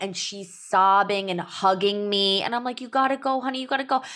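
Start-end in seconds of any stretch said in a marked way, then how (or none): 2.8-4.0 higher-pitched, pleading coaxing; urging mom. Retold or imitated. Mother to sobbing daughter at drop-off, coaxing urgently. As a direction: coax a clinging child out the door.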